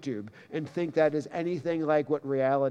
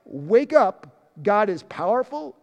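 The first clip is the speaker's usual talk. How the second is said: urgent wake-up call; 4 semitones higher, 4 dB louder than usual. Pretend. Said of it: "this is like".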